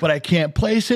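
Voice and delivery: mock-gushing clerk; excited recognition. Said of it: "he goes".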